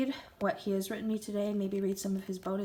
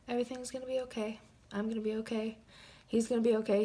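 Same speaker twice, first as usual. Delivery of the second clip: tearful reassurance; 3 semitones higher, faster than usual. Real, not acted. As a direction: hold back tears as you comfort yourself. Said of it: "I'm getting a little emotional".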